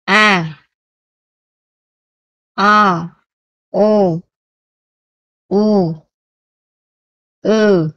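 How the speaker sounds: teacher modeling Vietnamese vowels; vowel drill. Shown as a demonstration. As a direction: model each vowel slowly for students. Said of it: "nguyên âm đầu tiên mình đã học".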